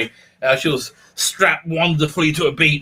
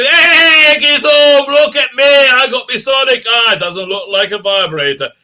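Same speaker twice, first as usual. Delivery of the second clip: much higher, louder mock Doctor; hammed-up Doctor; 6 semitones higher, 7 dB louder than usual. Mocking the Doctor flashing her Sonic, hammed up. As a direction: brandish it like a hammy hero. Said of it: "she's like, pulls out a Sonic".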